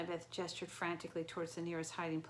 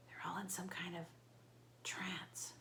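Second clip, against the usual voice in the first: softer, voiceless whisper; 8 dB quieter than usual. A narrator's reading. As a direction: keep it secret from the crowd. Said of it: "Annabeth whispered".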